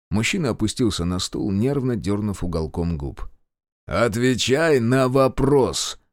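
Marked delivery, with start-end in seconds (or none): 3.9-6.0 slow, hard command; stern frown. Acted. Reshetov frowning and ordering the prisoner to answer, slow and stern. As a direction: lean on each word, frowning. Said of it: "нахмурился Решетов".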